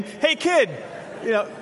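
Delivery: hammed-up parent shouting for the kid; mock yell upstairs. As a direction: keep calling the kid down, needy. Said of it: "So you yell up".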